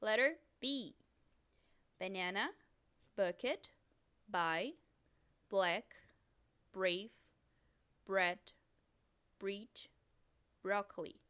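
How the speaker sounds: each English word said clearly with pauses; teacher reading a vocabulary list in English; English model words. Shown as a demonstration. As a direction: model the English pronunciation for repeating. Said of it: "Então, vamos começar".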